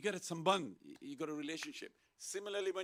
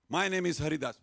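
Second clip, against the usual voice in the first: re-enacted loud, higher-pitched introduction; loud self-introduction; 4 semitones higher, 12 dB louder than usual. Introducing himself to people he doesn't know, calling out. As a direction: announce yourself loudly to a crowd.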